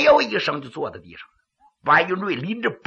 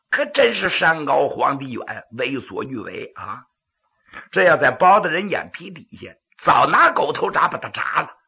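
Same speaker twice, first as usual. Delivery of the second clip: pingshu storytelling narration; dramatic Chinese storyteller; gravelly dramatic storyteller; 2 semitones lower than usual. A narrator's reading.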